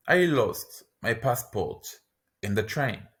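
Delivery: slow, split after passport; I lost my passport, pause, in the train; slow, in two chunks. Shown as a demonstration. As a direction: break it into chunks for the learner. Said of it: "lesson repeats phrase twice".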